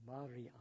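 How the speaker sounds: "Mariam" as Ma-ri-am, three syllables. Shown as a demonstration. Preacher voicing Jesus calling Mary by name, in three syllables. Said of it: "three syllables".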